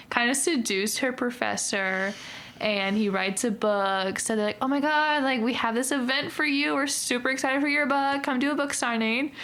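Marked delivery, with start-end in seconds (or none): 4.6-9.3 mock-excited, higher-pitched fan pitch; gushing invitation. Booksellers invite the professor to a signing, gushing. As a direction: gush lightly, lifting the pitch.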